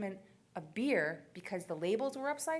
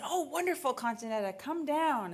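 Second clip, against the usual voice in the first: mock delight; 4 semitones higher, 4 dB louder than usual. Officials gladly accept mom's offer.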